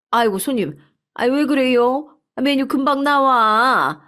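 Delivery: startled restaurant owner. Acted. 벌떡 일어난 손님에게 놀란 식당 주인, 높고 크게. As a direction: fuss over the customer who jumped up. Owner reacts to man standing up.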